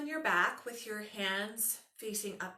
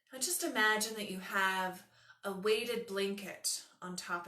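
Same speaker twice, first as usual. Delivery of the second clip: calm, unhurried meditation voice; guided meditation. Acted. Yoga teacher settling students under an imagined weighted blanket, guided meditation. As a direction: guide them gently into rest, letting phrases settle.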